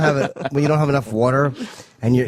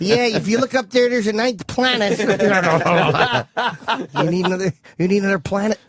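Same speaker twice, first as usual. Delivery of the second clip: high laughing mock Italian; jolly italian pizza chef; 5 semitones higher than usual. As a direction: play a giggly Italian, pitched up. Italian bit continues.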